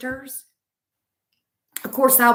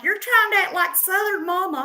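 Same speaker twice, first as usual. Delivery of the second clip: high-pitched mock accusation; mimicked accusation; 9 semitones higher than usual. Comedian mimicking people who accuse her of copying, mock accusation. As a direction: parrot the critics in a raised voice. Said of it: "People are like".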